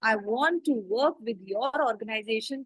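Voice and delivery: model interview answer. Shown as a demonstration. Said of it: "आपका answer हमेशा यही होना चाहिए कि".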